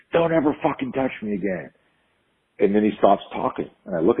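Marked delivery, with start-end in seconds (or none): 0.1-1.7 restrained re-enactment of a yell; retold angry scream. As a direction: act out a furious warning with raised pitch. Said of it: "I screamed in his face".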